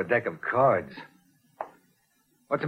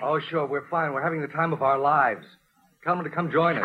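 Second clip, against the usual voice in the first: sarcastic. Acted. Larry sarcastic while Mary phones.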